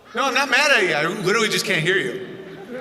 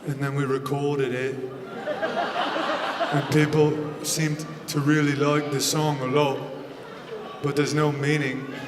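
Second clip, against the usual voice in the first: soft, low, mumbly British voice; softly mumbled British accent impression; impression of a singer; 6 semitones lower, 6 dB quieter than usual. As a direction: murmur like a shy British rocker, low and soft. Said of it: "He's like".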